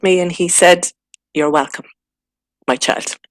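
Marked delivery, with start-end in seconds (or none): 1.3-3.2 hushed and unvoiced, tender; a soft whisper from above; whispered reply, gently fading; whispered answer. Divine voice answering her.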